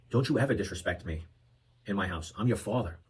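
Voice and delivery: a hint of a stern old-school father; old school dad. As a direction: quietly lay down the law as a stern dad. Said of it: "the urge to wanna go old school".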